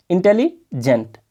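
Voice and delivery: "इंटेलिजेंट" said slowly, broken into its syllables; split into syllables. Shown as a demonstration. Teacher showing students where इंटेलिजेंट breaks, said slowly. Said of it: "तोड़ तोड़ के यहाँ पर देखोगे".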